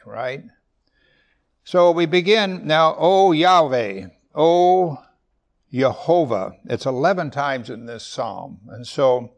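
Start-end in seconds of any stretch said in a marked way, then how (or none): 3.0-6.5 loud, slow, drawn-out invocation; invoking God with ringing voice; proclaiming. Acted. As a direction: call out the divine names.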